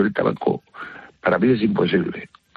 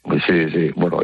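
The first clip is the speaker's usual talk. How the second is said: raspy smoker's voice; rough throat after surgery; smoker's rasp. Real, not acted. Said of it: "Tienes voz de fumador".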